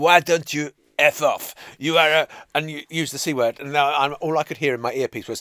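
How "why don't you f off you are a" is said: put-on thick French accent, deliberate, loud and slow. Retelling a man who came up behind the speaker during a broadcast: very French accent. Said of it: "he says in a very French accent".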